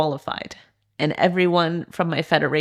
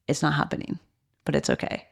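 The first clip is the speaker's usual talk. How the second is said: soft resigned whisper; 6 dB quieter, faster than usual. Retold or imitated. Resigned inner thought behind blocks.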